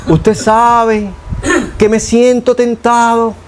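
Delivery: roundabout formal prayer. Retold or imitated. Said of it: "No, yo no oro así".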